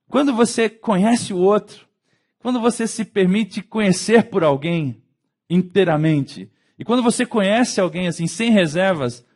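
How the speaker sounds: loud, high, driven sermon voice; fervent preaching. Acted. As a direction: preach to the congregation with full force. Prega com força. (pregação inflamada para a igreja)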